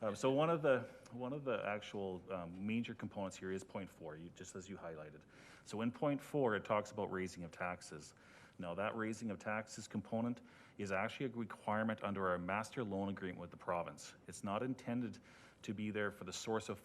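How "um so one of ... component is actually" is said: muffled behind a face mask; through a face mask. Real, not acted. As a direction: speak slightly dampened, as through a mask. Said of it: "I'm not used to speaking through a mask".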